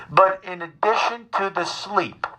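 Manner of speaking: slow, measured mother impression; calmly insistent mother. Son imitates his worried mother, calmly insistent. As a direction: stretch each word out like a patient, insistent mother. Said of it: "my mother is very calmly telling me".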